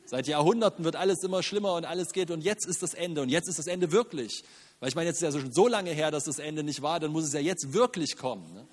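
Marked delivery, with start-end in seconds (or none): 0.1-4.4 mocking doom-prophet. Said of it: "mach mich nicht wirklich lustig".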